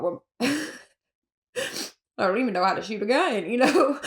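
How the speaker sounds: slow, laughing through the words. Real, not acted. Recalling the gun that would not fire, laughing slowly. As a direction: laugh at yourself mid-sentence. Laughing at her own failed shot.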